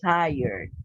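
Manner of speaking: "tired" as "TIE-erd", ending in r plus d; correct pronunciation. Shown as a demonstration. Teacher modelling the word for students, "tired" as "tie-yerd". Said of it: "kind of like that".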